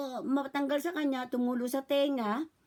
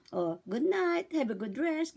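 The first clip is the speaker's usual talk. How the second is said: put-on talking to a baby; 3 semitones higher than usual. Shown as a demonstration. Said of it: "Ganyan po".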